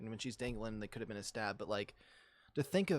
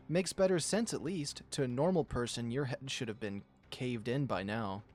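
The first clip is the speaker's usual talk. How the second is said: amused lioness. Acted. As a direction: laugh it off lightly. Nadja laughing, raised pitch.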